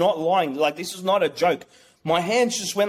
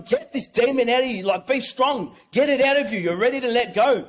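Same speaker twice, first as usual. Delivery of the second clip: higher-pitched, imitated healer's command; urgent urging; 5 semitones higher than usual. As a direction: urge them on insistently, retelling it. Retold healer urging him on.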